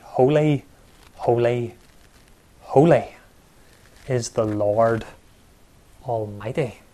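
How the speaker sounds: loud, ringing proclamation of the angels; angels' proclamation. Retold or imitated. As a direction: call out each holy like the burning angels praising God. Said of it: "Well, they say".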